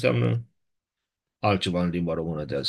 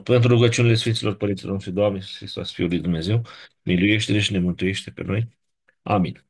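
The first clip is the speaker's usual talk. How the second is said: quick, rote prayer recitation; closing prayer. Acted. Teacher closing the reading with a prayer, quick rote recitation. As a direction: rattle off the familiar prayer.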